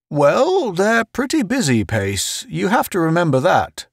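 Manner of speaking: high-pitched placating character voice; solemn Murchison. Acted. Murchison defending control stations to Pace, high solemn voice. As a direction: excuse them in a high, solemn voice.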